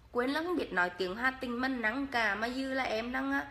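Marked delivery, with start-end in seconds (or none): 0.1-2.3 repeated Hà Tĩnh line, "không" stressed; Hà Tĩnh accent, second try; Hà Tĩnh dialect. Shown as a demonstration. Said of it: "em nói tiếng Hà Tĩnh cho mà nghe".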